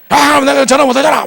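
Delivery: very high, loud mock yell; angry outburst. Passenger who cannot make his call, angry imitated yell. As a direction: explode like an outraged passenger. Retold passenger furious about phone.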